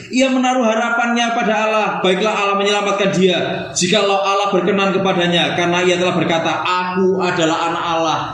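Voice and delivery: high, jeering taunt; mocking tone. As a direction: taunt the crucified man. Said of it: "Seperti ini nadanya". (nada mengejek, tinggi)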